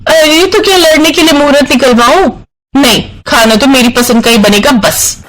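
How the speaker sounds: sharp, sassy comeback. Acted. Radhika snaps back at her husband, defiant.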